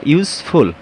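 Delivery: "ইউজফুল" pronounced as two parts, ইউজ then ফুল; syllable demonstration. Shown as a demonstration. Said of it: "যখন আমরা উচ্চারণ করব". ("ইউজফুল" দুই সিলেবলে ভেঙে উচ্চারণ)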